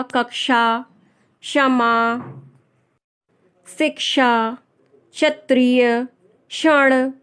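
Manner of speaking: words from कक्षा to क्षण with a clear 'sha'; separate, careful words, क्ष never as 'chha'; model pronunciation. Shown as a demonstration. Teacher modelling example words for learners, careful pronunciation. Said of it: "इस तरह से इसका उच्चारण करते हैं".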